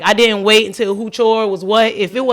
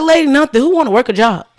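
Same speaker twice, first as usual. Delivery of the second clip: exasperated retort; 5 semitones higher than usual. Retold or imitated. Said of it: "I was like".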